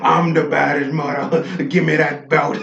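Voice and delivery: put-on laughing through a hammy Irish accent; overdone Irish brogue, high and loud; terrible Irish accent. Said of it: "that's a terrible Irish accent".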